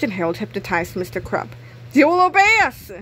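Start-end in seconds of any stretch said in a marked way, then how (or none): 1.9-2.9 loud, higher hypnotic command. Acted. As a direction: order him to obey. Hypnotizing the principal.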